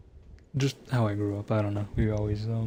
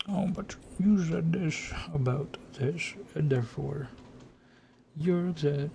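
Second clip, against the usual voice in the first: higher, slow accusing mom voice; a hint of a nagging mother, slowed down; imitating mom; 6 semitones higher than usual. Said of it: "just my mom".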